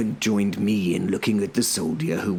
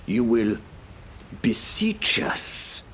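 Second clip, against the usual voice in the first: puzzled, higher query, slow on "beseech us"; feigned mishearing; 6 semitones higher, slower than usual. A narrator's reading. Defender checks the herald's threat, mock-puzzled. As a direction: echo it back as if misheard. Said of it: "as though I'd misheard him".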